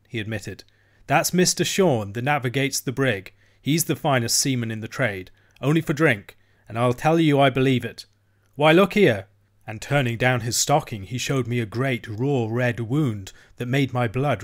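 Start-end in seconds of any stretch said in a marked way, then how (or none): 1.1-9.3 a lightly voiced cabin boy, eager to show off; boasting cabin boy.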